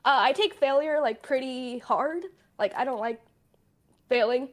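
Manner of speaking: trembling, close to crying; shaky voice. Real, not acted. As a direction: voice wavering with emotion. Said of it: "my voice is so shaky".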